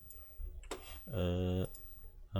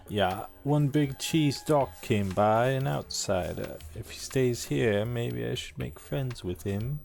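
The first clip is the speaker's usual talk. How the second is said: NPC townsman voice. Acted. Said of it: "Just keep changing the voice on this guy".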